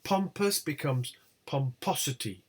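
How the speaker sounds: POMPOUS on POM, POMPOSITY on POS; stress shift. Shown as a demonstration. Teacher showing attracted stress, shift to POS. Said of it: "They attract the stress".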